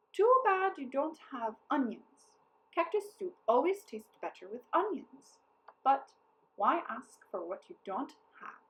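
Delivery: cunning false regret; sly hinting captain. A narrator's reading. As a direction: coax onions out of them. Captain baits for onions.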